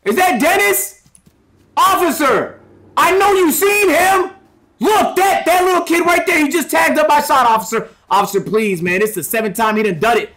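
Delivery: high, pleading complaint to an officer; upset shopkeeper. Pretend. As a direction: whine to the cop like a wronged store owner. Streamer voices wronged store owner.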